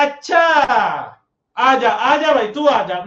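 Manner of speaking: loud, fired-up dare to bring it on; angry challenge. Retold or imitated. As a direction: shout it like an angry kid with a bat. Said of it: "उज्जवल को आ गया इतने में गुस्सा".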